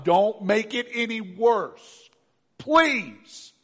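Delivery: loud, high, slow begging; possessed man, terrified, shouting his plea to Jesus; desperate pleading. Acted. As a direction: cry out to be spared, rising to a shrill please. Demon-possessed man begs Jesus.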